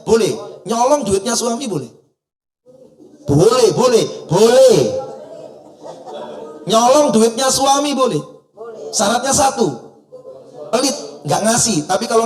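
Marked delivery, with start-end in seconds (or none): 0.6-1.9 a teasing, questioning rise on boleh; mock-scandalized question; rhetorical question. 3.3-4.8 louder and higher, repeating boleh with force; boleh, boleh, boleh called out loud; emphatic loud yes. Acted. Emphatic answer to audience. 6.7-8.2 higher and louder, a firm statement ending down on boleh; ruling delivered with a punch; emphatic verdict. Acted.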